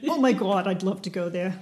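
gushing in a put-on New York accent; playful New York accent impression. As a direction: mimic an enthusiastic New Yorker. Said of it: "I enjoy a good New York accent".

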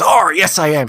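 put-on loud, high pirate boy; little boy pirate. Boy answering the old lady in costume, loud and high. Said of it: "little boy goes".

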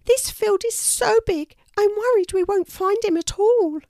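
very high squeaky voice, anxious; a tiny mouse losing hope; worried tiny mouse. A narrator's reading. Mouse fearing her brother is lost, squeaky.

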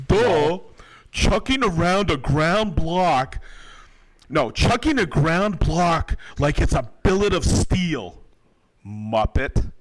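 reading the troll's comment in a hammed-up country accent. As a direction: lay on a rural drawl, mocking. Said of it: "try to say it in a country accent".

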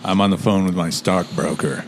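a hint of a measured, stately narrator; lightly put-on measured tone; Morgan Freeman. Joking about being on the phone with his stockbroker, lightly imitated Morgan Freeman tone. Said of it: "a bit of a Morgan Freeman little tone".

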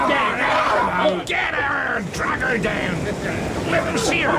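barking order. Acted. Wrecker leader orders.

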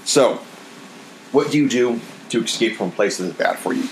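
words right after a sip; talking just after a sip of coffee; while sipping a drink. Real, not acted. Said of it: "Pardon me as I drink my iced coffee".

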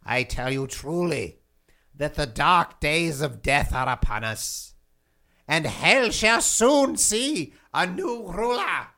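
lightly voiced king of hell prophesying; ominous prophecy. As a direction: intone it like a dark prophet. Demon king delivers dire warning.

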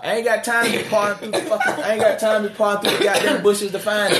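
ranting through a laugh; laughing while talking. Real, not acted. Joking rant.

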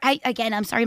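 rough, hoarse throat. Real, not acted. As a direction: speak through a hoarse voice. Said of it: "really gruff today".

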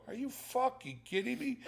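high-pitched but held-down outburst; mock incredulous scream. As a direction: imitate screaming inside your head. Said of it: "I wanted to scream and go".

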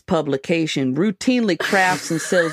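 lightly put-on rural Montana accent. Magazine excerpt read to friends in a mock Montana accent. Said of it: "I'm gonna do it in an accent".

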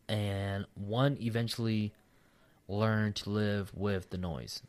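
halting read-aloud with long pauses; slow, broken-up reading. Real, not acted. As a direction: read it out slowly, stopping mid-sentence. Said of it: "I'm reading slow as fuck".

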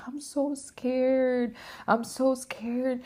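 put-on high, slow frightened little-girl voice; a small child too scared to let go. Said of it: "I became like this little girl".

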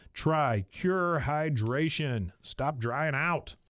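slow booming announcer drawl; foghorn. Acted. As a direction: stretch it like a foghorn. Drawn-out closing slogan.

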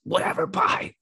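harsh, dismissive sign-off; rude hang-up. Acted. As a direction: spit it out like slamming down the phone. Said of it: "hang up on someone in a bad way".

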